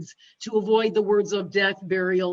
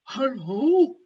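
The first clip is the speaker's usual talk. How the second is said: friendly voice; 2 semitones higher, 3 dB louder than usual. Retold or imitated. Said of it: "with a friendly voice".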